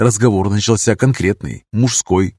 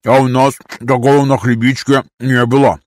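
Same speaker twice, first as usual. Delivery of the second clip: talking with a mouthful; chewing while speaking; mouth full. Acted. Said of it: "прошамкал Мартин".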